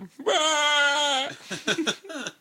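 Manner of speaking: high squealing cartoon laugh; Pee Wee Herman laugh. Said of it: "Like Pee Wee Herman".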